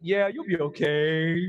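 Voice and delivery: low, slow, unbothered drawl; laid-back instructor. Retold or imitated. Instructor to panicking student, low and laid-back.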